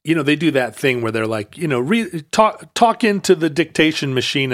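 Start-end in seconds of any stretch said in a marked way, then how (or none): none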